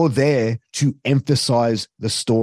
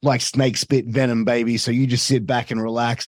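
arrogant heel commentator. Acted. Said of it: "give that little bit of arrogance".

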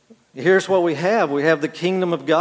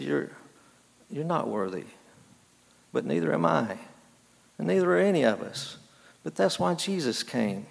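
soft, measured reassurance; quietly level with a crying boy, pausing between phrases; understated, tender honesty; gentle retold counsel; 8 dB quieter than usual.

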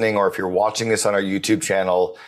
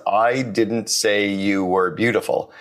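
I said slowly with weight; stress on I; slower than usual. Shown as a demonstration. Host showing how emphasis shifts meaning. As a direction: lean on the first word I. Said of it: "put the emphasis on each of the six words".

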